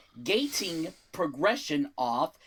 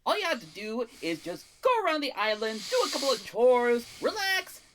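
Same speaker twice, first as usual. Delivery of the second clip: fast, pitched-up sales pitch; carnival barker; 6 semitones higher than usual. Acted. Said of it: "Why do you sound like a carnival barker?".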